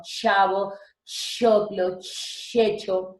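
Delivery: CHAVO, CHOCLO, CHECHO with drawn-out initial ch; CH sound. Shown as a demonstration. Teacher giving examples of the che sound, drawn-out CH. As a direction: linger on each opening ch. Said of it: "el sonido che, como".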